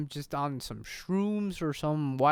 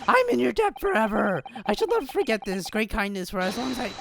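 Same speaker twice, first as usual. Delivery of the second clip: grateful client; 3 semitones higher than usual. Acted. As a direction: declare gratitude in an overplayed voice. Voices the grateful client in the game.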